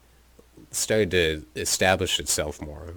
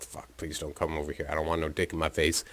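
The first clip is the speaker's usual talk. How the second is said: hushed plea; 2 semitones lower, 6 dB quieter, faster than usual. Retold or imitated. Whispered plea from other couch.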